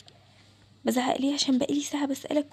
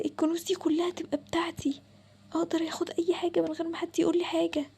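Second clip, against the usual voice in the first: greedy excited whisper; 3 semitones higher than usual. Acted. Invisible boy eyeing the treasures, greedy hushed glee. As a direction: whisper it like a kid in a treasure room.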